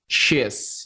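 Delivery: SHE'S run into one syllable, "sheez"; contracted form. Shown as a demonstration. Teacher offers learners the shortcut, "she's" as one syllable. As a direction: say SHE'S with no break before the s. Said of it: "bisa lanjut bilang".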